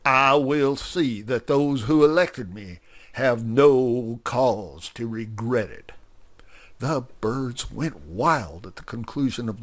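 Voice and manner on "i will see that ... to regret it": speechify like a self-important candidate; pompous politician. Acted. Grover gives a pompous speech.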